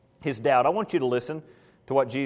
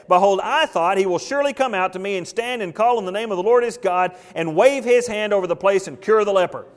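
raised, indignant complaint, read aloud; mildly furious; 3 semitones higher, 4 dB louder than usual. Acted. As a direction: voice an affronted man with a touch of fury. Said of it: "Naaman was furious and went away and said".

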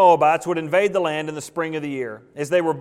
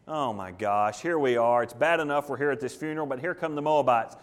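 low, muted "oh my gosh" dismay; low-voiced dismay; 4 semitones lower, 4 dB quieter than usual. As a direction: voice the mourners' sinking realization. Pallbearers see raiders charging.

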